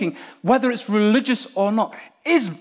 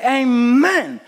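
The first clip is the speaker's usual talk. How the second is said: preacher's call; 4 semitones higher, 5 dB louder than usual. Shown as a demonstration. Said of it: "if I say".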